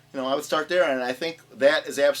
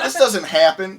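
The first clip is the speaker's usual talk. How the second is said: raised, incredulous mock yell; retold screaming; 4 semitones higher, 7 dB louder, slower than usual. Viewer retelling disbelief at quick tones, laughing mock yell. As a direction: protest loudly through a laugh. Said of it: "I was screaming at my T V".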